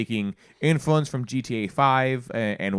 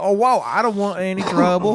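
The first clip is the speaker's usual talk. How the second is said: scared voice; 8 semitones higher, 6 dB louder than usual. Retold or imitated. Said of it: "you go".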